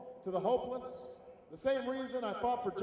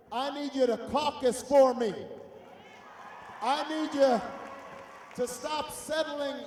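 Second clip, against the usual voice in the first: rally speech. Real, not acted. Rally speech closing appeal.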